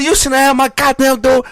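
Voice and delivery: high, loud imitation of a cranky grandma woken at night; laughing mock scolding as grandma. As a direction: play the grumpy grandmother laying into the boy, half laughing.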